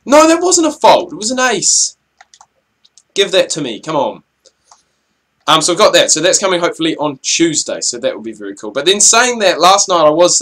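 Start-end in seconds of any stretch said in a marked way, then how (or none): 0.1-4.2 much higher, indignant cry; excited protest. Real, not acted. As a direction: yelp at the bad call, pitched way up. Protests call during the match.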